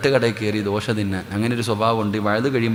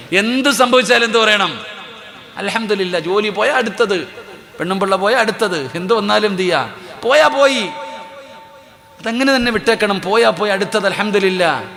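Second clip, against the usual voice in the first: fiery preaching; 8 semitones higher than usual. Real, not acted. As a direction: drive the question home to the crowd. Preaching at full force.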